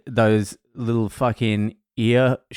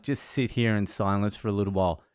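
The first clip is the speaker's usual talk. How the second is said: soft coaxing; 3 semitones lower, 7 dB quieter, faster than usual. Retold or imitated. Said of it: "I'm like".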